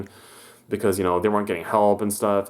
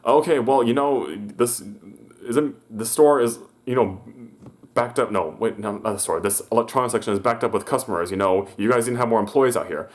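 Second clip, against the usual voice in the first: annoyed manager; 2 semitones higher than usual. Retold or imitated. Manager snapping at the greeter over the backed-up section, mild mock scolding. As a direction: play the manager blaming the greeter. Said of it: "And I was like".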